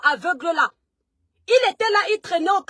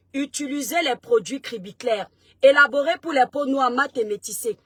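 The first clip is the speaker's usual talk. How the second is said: lower, measured sponsor pitch; ad read; 3 semitones lower than usual. Acted. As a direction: sell the skincare line smoothly to viewers. Reads a sponsor ad mid-live. (lecture publicitaire posée et plus grave)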